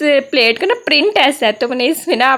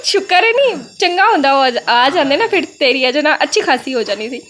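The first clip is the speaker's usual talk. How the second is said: mom teasing daughter about torn frock, mock-scolding; imitating mom; 2 semitones higher than usual. Retelling mom's teasing scold.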